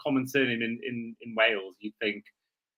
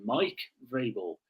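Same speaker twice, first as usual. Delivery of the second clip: storyteller's once-upon-a-time read, swinging pitch; a mock-solemn fairy-tale narration; dramatic reading; 2 semitones higher than usual. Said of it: "do a dramatic reading".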